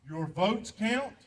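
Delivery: each word set down slowly; very slow and deliberate. Real, not acted. Veteran urging the audience to vote, slow and deliberate. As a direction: drag it out so it sinks in.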